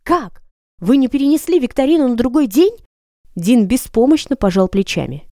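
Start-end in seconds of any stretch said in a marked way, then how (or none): 0.0-2.8 outraged, higher and louder; furious. Acted. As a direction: demand it in fury. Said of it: "Я в бешенстве уставилась на Дина". (в бешенстве)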